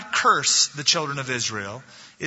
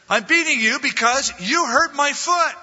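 angry retort; 11 semitones higher, 5 dB louder than usual. Acted. Balaam answers the donkey.

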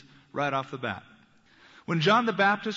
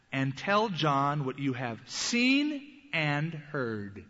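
solemn slow Jesus; 3 semitones lower, slower than usual. Acted. Jesus answering John's messengers.

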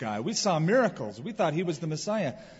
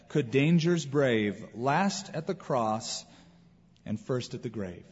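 slow, measured poem reading; poem recitation. Acted. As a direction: recite it gently and deliberately. Reads a poem.

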